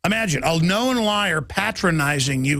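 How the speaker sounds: ordinary delivery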